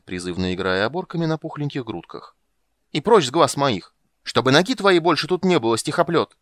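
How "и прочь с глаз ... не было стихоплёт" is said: furious yelling. Acted. Blonde yelling at the poet to get out. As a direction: drive him off with every word. Blonde driving him away.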